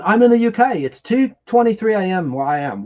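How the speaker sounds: badly faked British accent; terrible British accent. Host reads a UK viewer's message, badly faked British accent. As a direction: read it in a hammy attempt at British. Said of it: "Please excuse my terrible accent".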